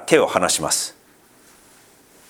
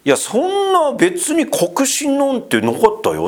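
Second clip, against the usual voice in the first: offhand believer; 11 semitones higher, slower than usual. Pretend. Voicing a casual believer.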